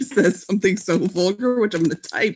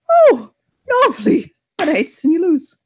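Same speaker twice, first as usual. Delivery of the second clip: sarcastic; 9 semitones higher, 4 dB louder than usual. Acted. Kier sarcastic challenge reply.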